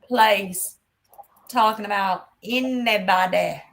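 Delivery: sassy telling-off. Retold or imitated. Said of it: "I was like".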